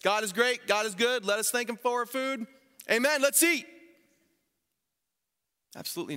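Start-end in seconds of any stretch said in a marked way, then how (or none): 0.0-3.7 high, loud sing-song grace rushed through; hammed-up quick grace said by rote; mock sing-song dinner prayer; rattled-off rote prayer. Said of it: "And did he say".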